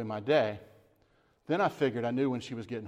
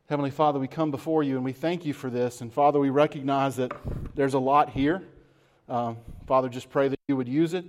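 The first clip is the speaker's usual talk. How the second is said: prayer. Acted. Pastor closing the service in prayer, earnest. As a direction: pray it over the people, sincerely.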